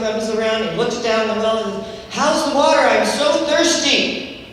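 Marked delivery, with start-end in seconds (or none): 2.1-4.5 a billy goat calling down eagerly. Acted. Goat calls down the well.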